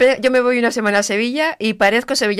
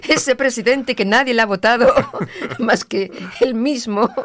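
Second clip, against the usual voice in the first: laughing; slower than usual. Real, not acted. Mocking Sánchez while laughing.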